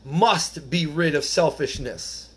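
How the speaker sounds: slow, deliberate "must be rid of selfishness"; slow emphasis. Acted. Driving the point home to the group, slow and weighty. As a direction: drag out "must" to hammer it home. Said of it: "it's a huge word, circle, underline".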